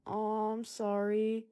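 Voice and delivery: slow, drawn-out token apology; awkward sympathy. Retold or imitated. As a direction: imitate an awkward attempt at comforting. Acts out awkwardly comforting someone crying.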